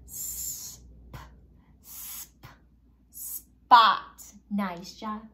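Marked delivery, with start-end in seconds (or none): 0.1-4.0 "S", "p", then "spot" loud; blending spot. Shown as a demonstration. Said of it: "So make those sounds with me".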